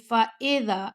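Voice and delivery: فَإِذَا with open ae vowel, the wrong way; فَإِذَا said as faeda, not recited. Shown as a demonstration. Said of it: "اے نہیں پڑھنا".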